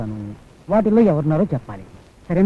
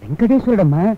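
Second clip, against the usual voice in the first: pleading; 4 semitones higher than usual. Acted. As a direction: beg her to remember, drawing it out. Coaxing mother to recognize photo.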